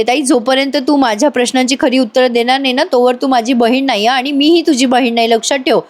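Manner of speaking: mild angry demand. Acted. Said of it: "Kavya चिडून म्हणते".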